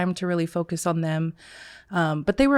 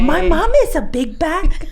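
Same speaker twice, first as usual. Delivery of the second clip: imitating a little kid; 10 semitones higher, 8 dB louder than usual. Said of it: "And he goes".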